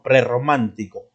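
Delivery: Prerromántico with a long trilled rr; prerromántico con erre vibrante fuerte; rolled double r. Shown as a demonstration. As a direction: roll the rr in Prerromántico fully. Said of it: "Ya con doble R".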